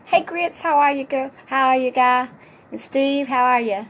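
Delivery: loud, high, happy hellos; cheerful greeting. Shown as a demonstration. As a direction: greet each friend with joy. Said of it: "talk in a different manner".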